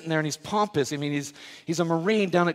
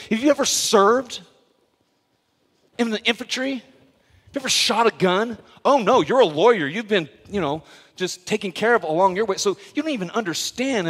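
movie general; 4 semitones higher, 4 dB louder than usual. Retold or imitated. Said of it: "looks at Tom Cruise and goes".

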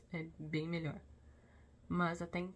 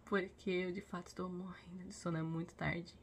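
sleepy. Real, not acted. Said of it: "eu devo tá falando meio, é, pausada".

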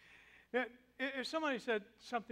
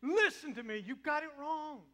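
loud, raised correction; angry, frustrated; 6 semitones higher, 6 dB louder than usual. Acted. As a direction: tell him off sharply. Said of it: "angry, frustrated".

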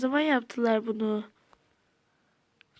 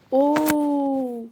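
surprised shout; 4 semitones higher, 7 dB louder than usual. Real, not acted. Finds chest.

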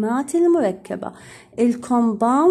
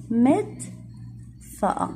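whispered echo; 6 dB quieter, much slower than usual. Shown as a demonstration. Teacher echoes answer softly.

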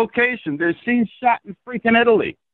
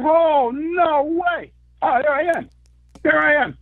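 replayed excitement; 7 semitones higher than usual. Retelling his award win to the host, excited disbelief. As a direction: relive the shock of hearing your name called. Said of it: "I was just like".

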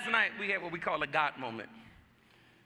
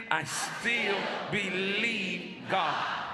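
shouted declaration; much slower than usual. Shown as a demonstration. Preacher pushing the congregation to shout the declaration. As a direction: shout it out slowly. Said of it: "Say it".

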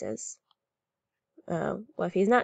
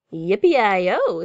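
cheer; 7 dB louder than usual. A narrator's reading. Cowboy cheers at good news.

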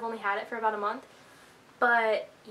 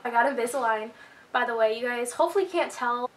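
slight lisp. Real, not acted. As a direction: lisp from aligners. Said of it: "I feel like I talk with a lisp".

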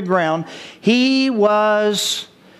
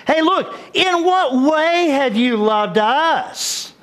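mocking, drawn-out whiny challenge, pitched high; cocky attitude; 7 semitones higher, much slower than usual. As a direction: drag it out with bratty, put-upon attitude. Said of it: "They were showing an attitude here".

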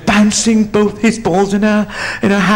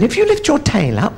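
lightly voiced mouse, pitched up; little mouse; 6 semitones higher than usual. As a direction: explain it as a small, high-voiced mouse. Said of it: "He said".

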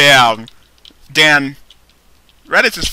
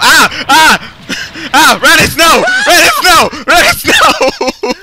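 raging gamer; 14 semitones higher, 8 dB louder, much slower than usual. Real, not acted. Losing the fight in game.

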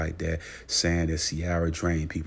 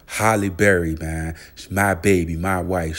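louder, drawn-out proud boasting; excited gushing; 6 dB louder than usual. Pretend. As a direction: show her off like a trophy wife. Gushing over his celebrity wife.

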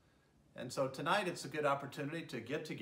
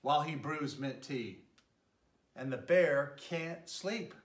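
gentle, lilting read-aloud voice; storybook narration; 3 dB louder than usual. A narrator's reading. Mayor reading a bedtime story to children, lilting narration. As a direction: tell it like a bedtime story for little ones. Reads picture book to children.

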